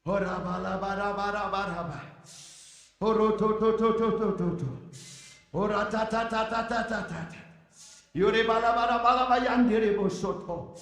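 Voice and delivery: rapid tongues syllables; speaking in tongues. Real, not acted. Glossolalic prayer syllables.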